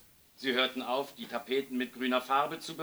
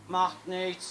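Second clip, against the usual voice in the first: put-on higher-pitched carefree child; unconcerned; 7 semitones higher than usual. A narrator's reading. Lisa answers the caretaker, lightly and unconcerned. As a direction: shrug it off in a higher voice. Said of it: "sagte Lisa unbekümmert".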